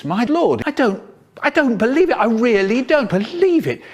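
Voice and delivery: thrilled disbelief. Acted. Teacher congratulating him on subscribers, excited high gush. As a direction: gush with amazement.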